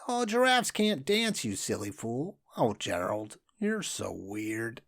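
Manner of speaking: sneering. Acted. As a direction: jeer at him, sing-song. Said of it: "the animals all sneered".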